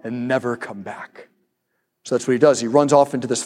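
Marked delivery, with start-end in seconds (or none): 0.0-1.3 lightly voiced villain sinking low to "Run and never come back"; Scar's cold threat. Scar tells young Simba to run away, lightly voiced villain menace. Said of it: "and said".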